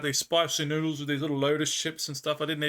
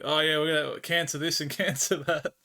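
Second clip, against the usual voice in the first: mocking imitation.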